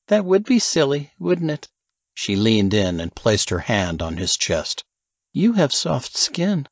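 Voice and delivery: Alice's teasing voice. Acted. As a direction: narrator lightly voicing a flirty Alice.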